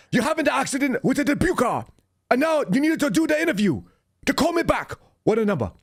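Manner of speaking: very high, hammed-up Chinese accent impression; thick Chinese accent. Agent retelling his training partner's call in mock Chinese accent. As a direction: squeak it out in an exaggerated Chinese accent. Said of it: "he had a really thick Chinese accent".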